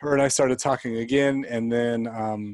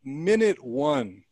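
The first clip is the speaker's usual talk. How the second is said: tender; much slower than usual. Real, not acted. Tender memory of bond.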